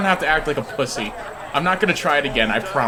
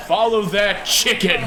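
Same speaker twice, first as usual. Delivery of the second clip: higher, drawn-out call to the chase; slow, raised heroic command; rallying cry; 4 semitones higher, slower than usual. Acted. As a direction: call the party to pursue. Rallying party after the chicken.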